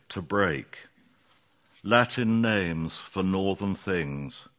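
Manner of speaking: slow, deliberate poetry recital; poem reading. Acted. Poet reads a poem about William Carlos Williams, deliberate recital. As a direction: set each short phrase apart with measured pauses.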